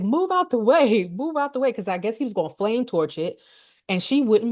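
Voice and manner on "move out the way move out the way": higher-pitched, urgent mock command; acted order to clear the path, pitched up; urgent Parker. Parker to Lambert, frozen before the xenomorph: urgent. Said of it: "Parker's like".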